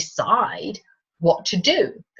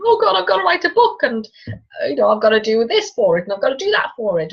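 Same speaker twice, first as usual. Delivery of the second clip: high, rushed, rising mock hysteria; hysterical; 5 semitones higher, 3 dB louder than usual. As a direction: babble in an overwhelmed panic.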